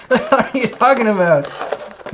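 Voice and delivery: high, loud, slowed laughing retort; laughing protest. Real, not acted. Streamer laughing back at his nephew's teasing, amused. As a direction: laugh it off in disbelief.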